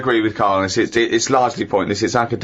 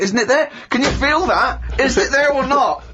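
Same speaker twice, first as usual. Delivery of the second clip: pretentious philosophy student; 13 semitones higher than usual. Retold or imitated. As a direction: play the smug student baffling someone. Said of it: "He goes".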